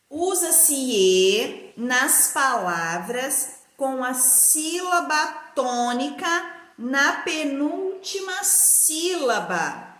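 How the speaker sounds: measured, chunked phrases for copying; spaced-out classroom dictation; slow dictation. Shown as a demonstration. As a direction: dictate slowly with pauses between word groups. Teacher dictates answer to write.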